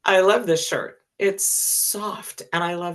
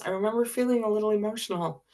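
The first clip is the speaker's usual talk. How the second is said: getting emotional; 4 semitones higher, much faster than usual. Real, not acted. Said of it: "I'm gonna get emotional again".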